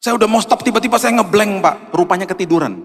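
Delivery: high, earnest voice of a tired courier; pleading courier. Retold or imitated. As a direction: plead like a worn-out delivery man.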